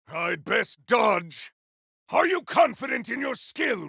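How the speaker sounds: a warrior shouting combat callouts, fierce and proud; defiant warrior battle cries; battle barks. Acted. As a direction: bark each line like a fighter mid-battle.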